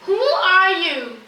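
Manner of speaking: put-on the curious boy shouts into the mountains, slow and loud; yell. A narrator's reading. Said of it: "he yells".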